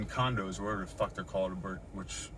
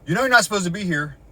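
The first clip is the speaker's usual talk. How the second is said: retold warning, louder and higher; officer's warning; 8 semitones higher, 12 dB louder, faster than usual. Retelling how the officer confronted her, loud and high. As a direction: bark it like the officer did. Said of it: "first thing out of his mouth".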